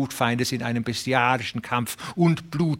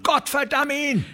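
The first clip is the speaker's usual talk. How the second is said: much higher, cursing rancher; Fluch. A narrator's reading. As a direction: curse the railroad boss. Curse voiced. (viel höher, fluchend)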